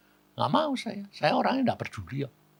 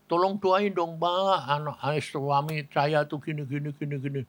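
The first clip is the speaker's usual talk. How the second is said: mock a weeping wife pleading, no real sobs; imitated tearful plea; 2 semitones higher, 3 dB quieter than usual. Wife begging pastor to pray for sick husband, mildly tearful imitation. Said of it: "Istrinya nangis".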